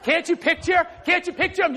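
ordinary talk

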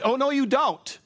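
high sassy drawn-out put-down; with attitude. Shown as a demonstration. Preacher shows the sassy way to shut down gossip, high and drawn-out. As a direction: give it full sassy attitude. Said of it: "the attitude one".

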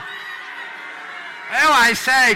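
posh English cry at full volume; shouted posh cue. Acted. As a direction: holler it high over the din, royally posh. Shouted posh cue over the crowd.

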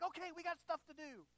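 high, loud, eager acted voice; excited. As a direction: play the revived patient raring to go. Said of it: "he's excited about it".

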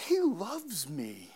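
soft unvoiced whisper, slow; whispered thought. Preacher recalling a thought in his truck, whispering. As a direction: breathe it like a secret to yourself.

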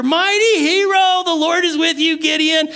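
high, booming heavenly herald; grand angel greeting. Acted. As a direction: hail him like a grand messenger of God. Angel hailing Gideon grandly.

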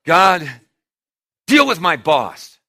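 loud, pleading prayer voice; hammed-up praying Christian; mock prayer. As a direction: beg God to sort out the boss.

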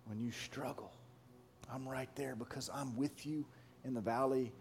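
God's gentle voice. Acted. Pastor voicing God's promise to the struggling listener. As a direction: whisper reassurance like a close friend. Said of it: "He says".

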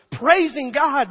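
high, loud and drawn out; loud praise. Retold or imitated. Preacher retells the multitude praising God, loud praise. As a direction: proclaim it at full voice. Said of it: "exclaiming in loud voices".

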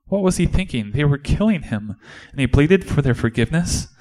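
high-pitched indignant disbelief; incredulous. Acted. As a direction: question it as if it makes no sense. Disciple cannot believe the plea.

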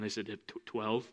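soft, hesitant mumble; sheepish answer. Acted. Disciples answering Jesus sheepishly, soft mumble. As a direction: answer like caught out.

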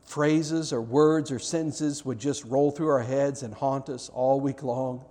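earnest pastoral prayer voice; closing prayer. Acted. Pastor praying over the congregation at the close, earnest prayer. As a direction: pray it over the room, sincere and unhurried.

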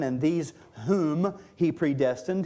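"whom" held out a little before moving on; stress on "whom". Real, not acted. Preacher reads the verse on predestination, "whom" emphasized. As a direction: read it with weight on "whom". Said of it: "I'm emphasizing the word whom".

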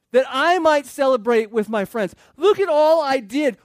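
loud mock whine about being owed; whiny older son. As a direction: whine like the jealous brother. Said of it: "Say that with a whiny voice".

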